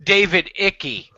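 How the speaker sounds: David Icky, last name said as ICK-ee; David Icky with a mocking ick sound; mispronounced name. Shown as a demonstration. Renaming the guy David Icky for friends, mocking pronunciation. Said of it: "as I like to pronounce his last name".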